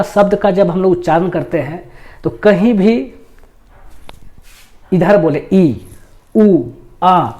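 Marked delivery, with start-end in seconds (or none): 5.5-7.3 "ई", "ऊ", "आ" purely from the mouth, no nasal air; plain oral "ई", "ऊ", "आ" for a Hindi class; non-nasal vowel demo. Shown as a demonstration. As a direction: sound "ई", "ऊ", "आ" clean through the mouth, no nose. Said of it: "नहीं लग रहा कि नाक पर थोड़ा सा भी असर".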